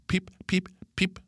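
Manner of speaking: tiny high cheeps; playing a bird. A narrator's reading. Pip up in the tree pretending, high bird cheeps. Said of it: "Nu er jeg en fugl".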